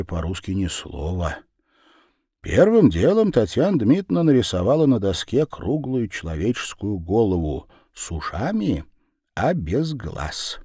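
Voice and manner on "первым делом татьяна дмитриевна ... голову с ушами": plain reading voice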